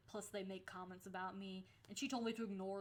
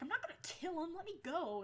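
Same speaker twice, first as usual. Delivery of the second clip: higher, laughing while struggling; laughing protest; 9 semitones higher, 4 dB louder than usual. Retold or imitated. Telling her friend to let go, laughing. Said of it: "I'm like".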